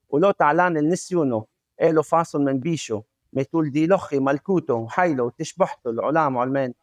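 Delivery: low-key, running Aramaic prayer recital; prayer recitation. Shown as a demonstration. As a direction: recite the prayer from memory in even phrases.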